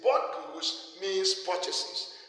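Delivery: very slow, every word weighted: bought goods here means purchases; deliberate teaching emphasis; emphasized slowly. Shown as a demonstration. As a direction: spell it out for students, word by word. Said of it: "the confusion here is".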